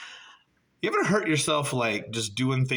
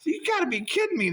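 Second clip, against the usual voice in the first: embarrassed shout. Real, not acted. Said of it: "I was so embarrassed".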